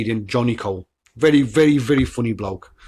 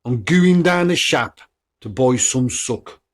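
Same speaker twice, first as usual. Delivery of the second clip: Black Country accent; 3 dB louder, slower than usual. Shown as a demonstration. Podcaster recapping main local sayings, slow Black Country accent. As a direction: stretch out the Black Country phrase, strong start. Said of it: "them are the two main ones".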